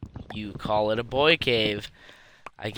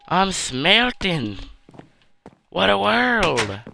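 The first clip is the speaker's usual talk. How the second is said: excited; 6 semitones higher, slower than usual. Acted. Gleeful shout while smelting in game.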